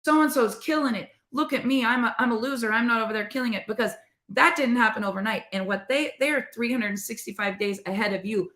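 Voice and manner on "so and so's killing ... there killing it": half-hearted mock whine about being a loser; mock self-pity. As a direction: pout over someone else's success. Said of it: "look on social media and say".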